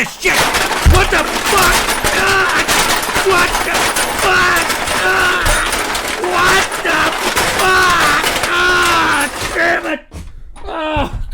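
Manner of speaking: loud furious yells pitched far up like a cartoon chipmunk; chipmunk voice effect. Real, not acted. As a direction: scream it out as a squeaky sped-up cartoon rodent. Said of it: "make me sound like a fucking chipmunk cartoon".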